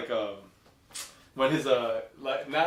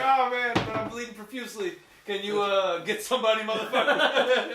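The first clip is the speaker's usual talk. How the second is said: mock British movie quote; 5 semitones higher than usual. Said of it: "He was like".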